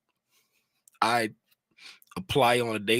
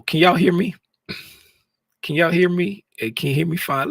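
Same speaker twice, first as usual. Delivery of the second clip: higher, louder check; checking audio; 7 semitones higher, 5 dB louder than usual. Real, not acted. Streamer asks chat if they hear him, louder. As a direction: push the voice out to test the mic. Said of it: "I feel like I'm talking low".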